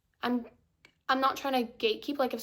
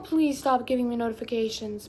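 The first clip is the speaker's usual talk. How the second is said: exasperated; 4 dB louder than usual. Real, not acted. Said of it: "It's annoying me too".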